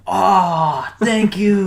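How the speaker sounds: put-on high-pitched caricatured Asian accent; mock Asian accent. Family thanking crew for water, mock Asian accent. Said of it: "I love the Asian aw after everything".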